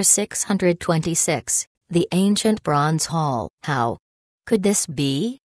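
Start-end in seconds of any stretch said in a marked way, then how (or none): 3.6-5.4 hushed, shaken gasp of terror; terrified. A narrator's reading. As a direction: barely get the words out. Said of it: "said in terror".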